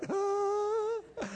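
high, soft helpless wail; mock panic wail. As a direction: whimper like a clueless guy. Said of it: "we guys are like".

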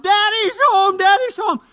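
put-on high, loud excited children's shout; little kids calling out to dad, high and loud. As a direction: yell it like kids greeting dad at the door. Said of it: "The little ones shout".

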